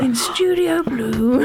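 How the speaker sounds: hushed, very slow nature-documentary narrator; David Attenborough. Acted. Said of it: "David Attenborough".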